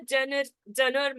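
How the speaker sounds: genre misread as "Janar"; "Janar", a learner's attempt at genre; students' mispronunciation. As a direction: say "Janar" with a hard n and no zh. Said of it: "For some student, they'll be pronounced as".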